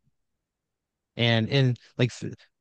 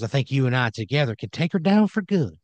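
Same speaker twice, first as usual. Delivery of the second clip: slightly raised in-character voice; Randy Wrench; 4 semitones higher than usual. Acted. Randy recruits player against Sludge, lightly hammed-up resolve. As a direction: lift into a high swoop near the end. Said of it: "He goes".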